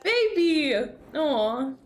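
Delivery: high-pitched doting cry; cooing. Real, not acted. Streamer seeing a baby on screen, cooing.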